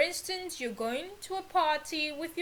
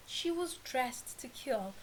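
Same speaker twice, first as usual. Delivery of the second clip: "She was dressed to kill" said again, softer and settled; softer repeat; 6 dB quieter than usual. Shown as a demonstration. Teacher repeating the idiom for learners, quieter. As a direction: repeat it quietly to let it sink in. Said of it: "Next one".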